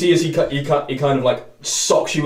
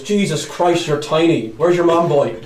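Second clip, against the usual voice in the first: tall tiefling mocking; 4 semitones higher, 5 dB louder than usual. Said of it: "Guy looks down and goes".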